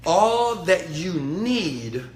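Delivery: slow affirmation. Shown as a demonstration. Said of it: "say this with me".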